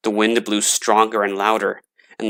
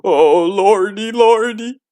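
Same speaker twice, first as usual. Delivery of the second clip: much higher, slow, terrified moan; frightened moan; 11 semitones higher, 5 dB louder, slower than usual. A narrator's reading. Gravedigger hiding under blankets, frightened high moan. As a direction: moan it out shaking with fear. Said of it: "the gravedigger moaned".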